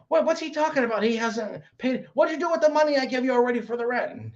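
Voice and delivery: high-pitched imitation of a girlfriend demanding answers; mock incredulous. Girlfriend confronting boyfriend over rent money, mock incredulous. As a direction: confront him in put-on disbelief.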